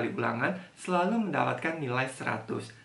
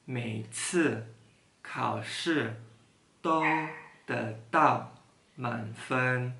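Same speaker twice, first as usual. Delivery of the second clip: slow reading; much slower than usual. Shown as a demonstration. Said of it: "Sekali lagi".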